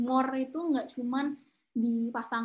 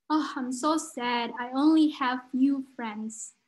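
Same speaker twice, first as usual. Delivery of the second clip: mock sad; much slower than usual. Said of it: "aku sedih banget".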